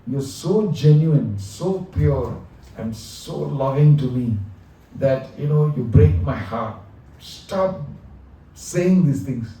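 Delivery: a touch of a heartbroken Lord; God telling the devotee his love breaks his heart; the Lord, moved. Retold or imitated. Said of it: "God is speaking this to his devotee".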